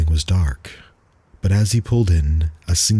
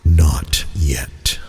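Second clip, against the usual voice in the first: ominous; 2 semitones lower than usual. Acted. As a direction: let the words hang with dread. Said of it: "dripped off his voice with an ominous tone".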